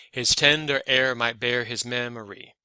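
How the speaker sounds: measured beat stressing TEN in "tender", AIR, BEAR, MEM in "memory"; iambic scansion. Shown as a demonstration. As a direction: recite "his tender air" as da-DUM da-DUM. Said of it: "you are not going to talk like this".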